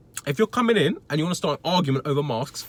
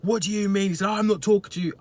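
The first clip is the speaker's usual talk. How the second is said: higher, snippy imitation; higher, dismissive voice mocking the customer; mock snooty customer; 6 semitones higher than usual. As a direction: toss it off like a rude customer. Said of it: "he was like".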